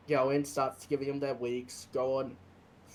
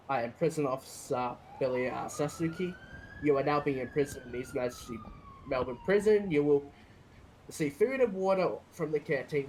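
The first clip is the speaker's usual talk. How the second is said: formal rights recital. Shown as a demonstration. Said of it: "Can you read that for me?".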